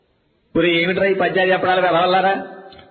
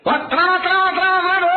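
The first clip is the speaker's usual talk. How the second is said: put-on high squeaky child chanting his name; high childish repeated chant; silly kid voice; 12 semitones higher, faster than usual. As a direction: pipe it up like a goofy schoolboy. Kid answering roll call oddly.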